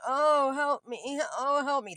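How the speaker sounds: drawn-out, high and loud retold plea; loud cry for help. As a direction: imitate a woman loudly calling for help.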